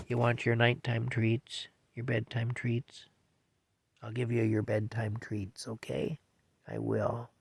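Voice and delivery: soft, reassuring promise to a pet; tender pet talk. Real, not acted. Man promising his cat bedtime treats, tender pet talk. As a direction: speak gently and softly, as to a cat.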